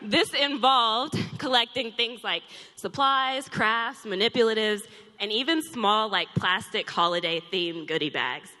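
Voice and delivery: breathless, catching her breath; winded talking between breaths. Real, not acted. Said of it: "I'm so out of shape, y'all".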